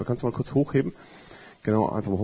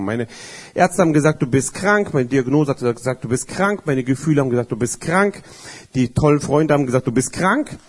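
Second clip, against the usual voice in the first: preaching litany. Acted.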